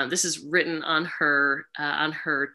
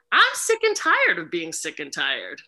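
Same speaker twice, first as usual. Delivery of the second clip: firmer mantra. Shown as a demonstration. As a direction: say it with force. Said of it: "I'll start".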